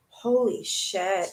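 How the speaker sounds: slow, drawn-out holy shit; slow stunned exclamation. Real, not acted. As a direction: let the shock sink in slowly. Stunned reaction to the quote.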